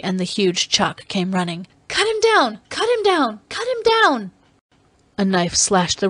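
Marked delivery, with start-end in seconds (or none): 1.9-4.3 very high, frantic cries; wild scream. Acted. Dalisa calling the Chak to free him, wild scream. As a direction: scream the order wildly, over and over. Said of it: "She screamed wildly".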